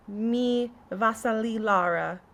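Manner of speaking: slow, mock Italian lilt; light Italian-accented conlang. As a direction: say it like an Italian phrase. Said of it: "Why am I saying it in an Italian accent?".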